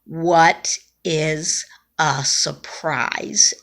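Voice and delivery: slow, labored between breaths. Retold or imitated. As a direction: squeeze it out, struggling for air. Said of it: "in between breaths".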